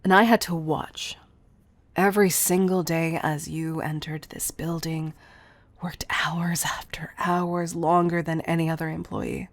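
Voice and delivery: distraught, halting at first, then insistent; anguished outburst. Acted. Distressed confession about watching beloved starve.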